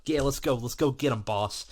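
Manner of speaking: mock up a gung-ho sidekick; eager henchman. Axel backing his boss Cody's plan, eagerly. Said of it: "totally on board with everything Cody has".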